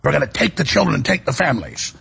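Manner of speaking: half-hearted imitation of an Irish accent; attempted Irish accent. Radio host quoting an Irish official, weak Irish accent. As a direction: have a rough go at an Irish accent. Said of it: "I can't really do an Irish accent".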